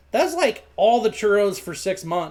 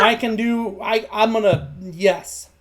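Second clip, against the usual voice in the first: stammering, halting eager yes; badly contained excitement; 2 semitones higher, slower than usual. Boy accepts apprenticeship, badly holding back excitement. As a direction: trip over your words trying to stay cool. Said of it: "tries to hold back his unbridled excitement".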